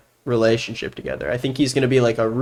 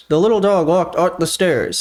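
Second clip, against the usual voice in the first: words pushed to the back of the mouth; ventriloquist voice; 3 semitones higher than usual. Shown as a demonstration. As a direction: lips still, sound from the throat. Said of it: "it sounds like I'm talking back here".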